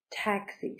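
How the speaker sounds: Taxi with the weight on TAX; teacher models Taxi, first beat stressed; stress on first syllable. Shown as a demonstration. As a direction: stress tax, lighter falling xi. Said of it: "Stress is on the first".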